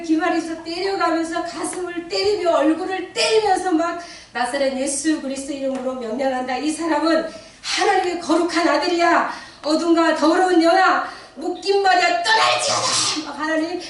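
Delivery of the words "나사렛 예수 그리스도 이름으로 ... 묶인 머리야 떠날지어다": building from firm to loud, high rebuke; desperate command, swelling to a loud, strained end; commanding prayer. Retold or imitated. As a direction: cast out the evil spirit with rising force. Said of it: "절박한 심정으로 기도했어요".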